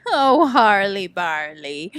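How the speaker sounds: affectionate teasing coo; fond teasing. Real, not acted. Teasing pet name for Harley.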